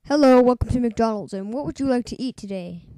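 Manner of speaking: fast food cashier. Acted. Drive-through cashier greeting.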